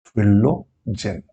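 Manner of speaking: फिलोजन stretched very slowly with a falling close; drawn-out answer. Shown as a demonstration. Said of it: "और cork cambium क्या है?".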